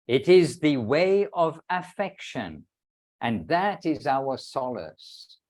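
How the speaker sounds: slow, measured close to a sacred reading; deliberate recitation, settling gently at the end; solemn devotional reading. Acted. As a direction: draw out the final phrases with reverent weight. Reads the closing quoted lines.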